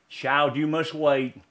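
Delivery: gentle master. Acted. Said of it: "the master gently said".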